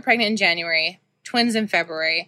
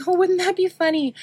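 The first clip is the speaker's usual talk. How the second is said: joking; 11 semitones higher than usual. Retold or imitated. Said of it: "I was like".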